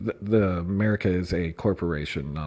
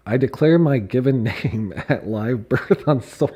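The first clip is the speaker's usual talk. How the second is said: louder read, breaking into a laugh; reading through laughter; 3 semitones higher, 6 dB louder than usual. Real, not acted. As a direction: try to read it straight and crack up. Reading absurd text while laughing.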